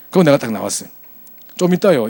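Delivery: ordinary delivery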